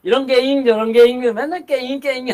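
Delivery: lightly imitating the Jeolla sentence-ending 게잉; playful Jeolla dialect imitation; mock Jeolla dialect. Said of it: "전라도 말들은 뭐".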